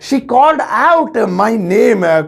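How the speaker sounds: slow second take, weight on out; slow careful English repeat. Shown as a demonstration. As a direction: repeat slowly, leaning on out. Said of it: "तो उसने मेरा नाम जोर से पुकारा".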